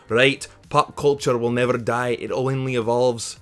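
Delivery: slow, deliberate mock Scottish accent; bad Scottish accent. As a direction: put on a clumsy Scottish accent for the quote. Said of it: "my shitty Scottish accent".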